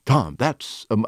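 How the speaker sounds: hammed-up impression of an actor friend; lightly exaggerated, portentous actor delivery; William Shatner. Actor urging his friend over lunch, lightly hammed-up impression. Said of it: "he doesn't really talk like that".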